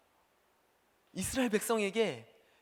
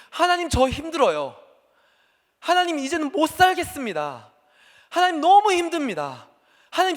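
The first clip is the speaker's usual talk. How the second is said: higher and louder, anguished pleading; crying out to God; 7 semitones higher, 6 dB louder than usual. Acted. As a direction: beg God in despair, voice straining. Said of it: "그렇게 하나님께 울부짖었던". (하나님께 울부짖듯 높고 크게 호소)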